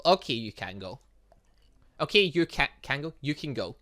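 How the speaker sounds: ordinary talk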